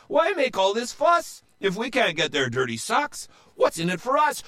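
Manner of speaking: very high, whiny complaint; whining pirate. A narrator's reading. Pirate whining to Joe, very high. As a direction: moan that it's pointless. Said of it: "another said".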